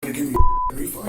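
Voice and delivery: retold yell. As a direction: blast it like the angry customer. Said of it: "This is the way he was talking".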